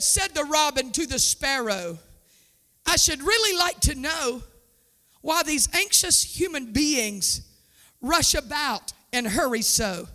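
hushed poem shared with the congregation; poem reading. Acted. Reads a little poem.

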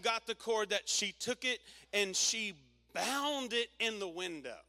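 loud, driving sermon voice; preaching at full force. Acted. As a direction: preach it out to the room.

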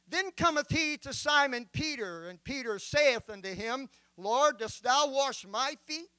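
measured, solemn Bible reading; solemn King James reading; scripture reading. Acted. Reads John 13 aloud.

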